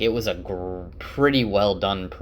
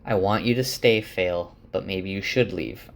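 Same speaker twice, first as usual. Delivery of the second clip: measured, understated delivery; calming down. Retold or imitated. Man reasoning with his partner after a breath, calm. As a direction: say it evenly, keeping the anger out. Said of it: "takes a breath and tries to calm down".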